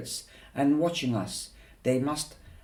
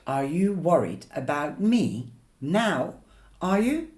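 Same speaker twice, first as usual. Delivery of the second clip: rising into a sharp challenge; angry confrontation; 4 semitones higher, 4 dB louder than usual. Acted. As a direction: fire the question back, building.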